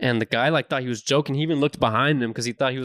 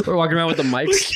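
trying not to laugh; 4 semitones higher than usual. Real, not acted. Laughing at own vlog idea.

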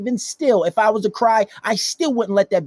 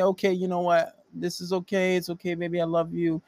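softly voiced reassurance; mock forgiving; 2 semitones higher, 5 dB quieter than usual. Woman forgiving her crying boyfriend, softly reassuring. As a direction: soothe him gently, in a quieter voice.

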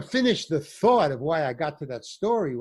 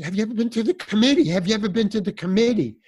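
fast, higher, urgent pitch; urgent fast question; 5 semitones higher, 3 dB louder, faster than usual. Retold or imitated. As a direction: grab at anything to save him. Friend urgently pitching the committee.

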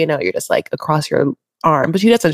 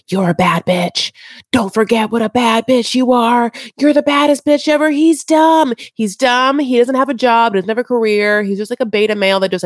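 put-on hyping girlfriends; 3 semitones higher than usual. Cohost mimics friends hyping up crying Brittany, high and gushing. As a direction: gush over her like a hype girl. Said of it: "those girls are like".

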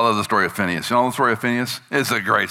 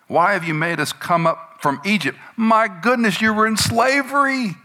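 high, raised mock grumbling, rising to a near shriek; grumbling Israelites; 10 semitones higher, 4 dB louder than usual. The Israelites complain to Moses, in high, loud mock grumbling. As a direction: whine it like a crowd fed up with the desert.

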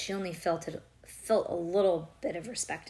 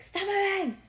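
high, loud snapping order; hammed-up exasperated yell; mock shout; 12 semitones higher, 5 dB louder than usual. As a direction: shout it as if fed up. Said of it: "Or like".

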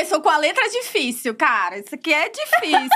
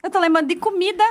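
higher voice breaking into laughter; laughing; 5 semitones higher, faster than usual. Real, not acted. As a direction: laugh through your own silly answer. Cracks up at own answer. (falando aos risos, achando graça)

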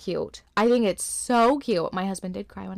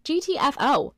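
mock angry; 7 semitones higher, 4 dB louder than usual. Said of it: "It's like".

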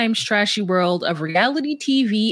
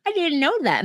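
higher, softer mock reply; Gino; 6 semitones higher, 4 dB quieter, faster than usual. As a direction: imitate a man caught unaware. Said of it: "And he's like".

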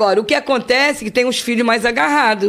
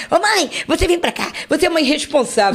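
higher, mock-bossy daughter voice; mock scolding daughter; 4 semitones higher than usual. Mother mimicking her daughter scolding her, higher mock-bossy voice. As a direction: imitate the daughter telling you off.

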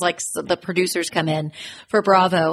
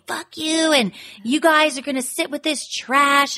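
mildly acted parting blast, pitched up; mad retort; 5 semitones higher than usual. Teresa imitated leaving the table, mad at everybody. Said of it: "now she's mad at everybody".

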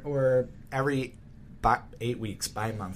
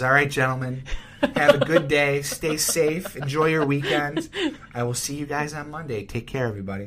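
loud, sharp teacher dismissing class; 2 semitones higher, 3 dB louder than usual. Shown as a demonstration. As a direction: call out like a teacher ending class. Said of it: "my teacher voice is".

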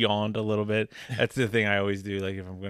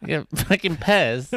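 Leslie Chow; 4 semitones higher, 4 dB louder than usual. Retold or imitated. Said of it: "quick Leslie Chow".

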